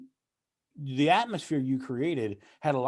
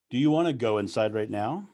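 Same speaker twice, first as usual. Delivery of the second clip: lower, with a drop on "go inside right now"; embedded command; 4 semitones lower than usual. Shown as a demonstration. Speaker demonstrates an embedded command, polite question hiding an order. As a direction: ask "Do you wanna go inside right now?", dropping "go inside right now" into an order. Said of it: "it's that drop".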